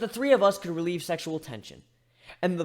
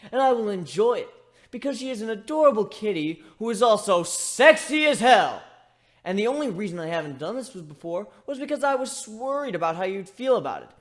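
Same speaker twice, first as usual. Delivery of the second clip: sarcastic; 3 semitones higher, 4 dB louder than usual. Acted. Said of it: "How sarcastic was this explanation?".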